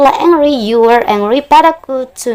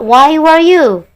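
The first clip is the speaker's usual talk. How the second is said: slow emphatic correction; 6 semitones higher, 6 dB louder, much slower than usual. Shown as a demonstration. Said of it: "Yang benar adalah".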